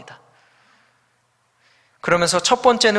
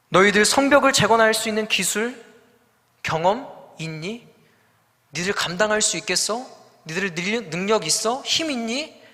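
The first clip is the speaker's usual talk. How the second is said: mocking taunt; 3 semitones higher than usual. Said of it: "라고 이야기하는 거예요".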